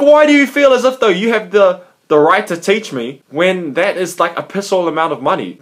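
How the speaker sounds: indignant challenge, starting high and loud, easing off; fired up. Retold or imitated. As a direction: take him to task, worked up. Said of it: "The reason why I'm getting all fired up".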